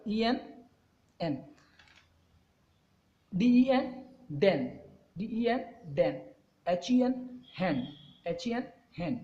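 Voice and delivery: each letter stretched very slowly; slow drawn-out spelling. Shown as a demonstration. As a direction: sound it out slowly for the class. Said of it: "क्या होगा?".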